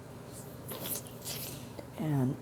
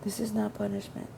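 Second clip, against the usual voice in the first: self-reassurance; 5 semitones higher, 5 dB quieter than usual. Retold or imitated. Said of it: "I just kept repeating that to myself".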